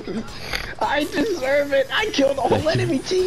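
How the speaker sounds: melodramatic. Acted. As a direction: play it like a tragic hero. Dramatic high roleplay.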